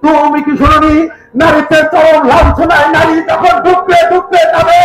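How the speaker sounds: rising oratory; rising declamation. Acted. Nawab's rising rhetorical challenge.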